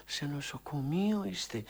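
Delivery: a hushed, calming whisper; soft voice. Retold or imitated. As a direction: soothe a frightened patient softly. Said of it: "ακούω μια φωνή". (ψιθυριστή, καθησυχαστική φωνή)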